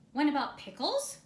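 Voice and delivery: loud, gruff bear demanding pickles; commanding bear. Acted. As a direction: boom it out like a bossy bear. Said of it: "commanded Bear".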